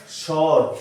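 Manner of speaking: স্বর as "shor", the w silent; correct shor pronunciation. Shown as a demonstration. Teacher showing how it should be said, স্বর as shor. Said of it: "আমাদের উচ্চারণ হওয়া দরকার ছিল".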